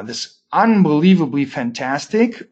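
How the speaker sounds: mock praise, heavy on the irony; sarcastic. Real, not acted. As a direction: say it as sarcastic fake enthusiasm. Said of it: "I'm being sarcastic".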